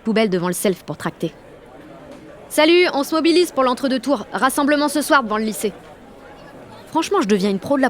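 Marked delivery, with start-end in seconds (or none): 2.5-5.7 upbeat, higher-pitched recruiting pitch; rally them with a brisk, projected appeal; activist pitch. Acted. Jeanne recruits classmates for tonight's rally, upbeat pitch.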